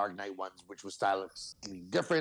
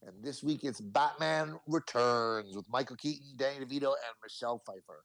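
announcer voice; 3 semitones higher than usual. Acted. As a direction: sell it like a game show host. Show intro continues.

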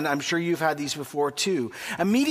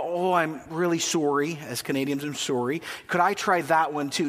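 apologetic Canadian; 2 semitones lower than usual. Retold or imitated. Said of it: "very Canadian".

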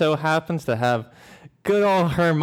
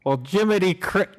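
botched attempt at a British accent; slightly raised, fake British accent; failed British accent; 3 semitones higher than usual. Shown as a demonstration. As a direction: have a bad go at British. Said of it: "No, that's not British".

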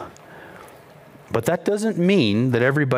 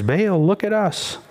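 higher-pitched plea, no real shout; mild mock calling out; 4 semitones higher than usual. Baal's prophets plead with their god, half-called out. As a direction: call out in a raised pitch without real volume. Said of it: "They shouted loudly".

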